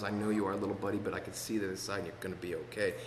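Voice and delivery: softly voiced, quick comforting words; gentle reassurance. God comforting a scared little buddy, retold with soft reassurance.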